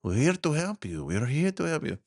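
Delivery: sarcastic government promise, repeated; mocking echo. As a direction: parrot the phrase to ridicule it. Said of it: "No, that's not what he said".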